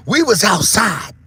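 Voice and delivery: loud, slow shout. Acted. Vlogger driving home the point, loud slow shout. Whispered then shouted repeat.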